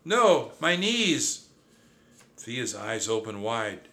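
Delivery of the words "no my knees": very high, giggling through the words; a mouse giggling while sinking in sand. Acted. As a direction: giggle like it's a game. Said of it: "I giggled".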